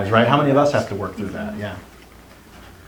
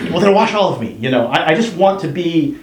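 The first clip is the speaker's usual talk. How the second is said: put-on higher, pleading little-kid voice; pleading child; 4 semitones higher than usual. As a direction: beg like a scared child. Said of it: "this little kid who's like".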